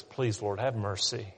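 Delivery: humble plea. Retold or imitated. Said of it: "looks at God and says".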